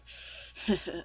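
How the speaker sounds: short breathy snicker; quiet, voiceless mock snicker; villain chuckle. Acting out villain's sneering laugh.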